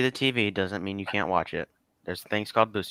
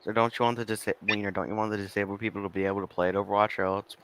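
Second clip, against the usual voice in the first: rushed, quieter repeat of the question; fast repeat; 4 dB quieter than usual. Shown as a demonstration. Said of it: "repeats the question faster, quieter".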